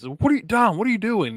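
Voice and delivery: imitating an irate teammate; mock furious. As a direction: act out fed-up scolding. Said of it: "Priest guy was furious".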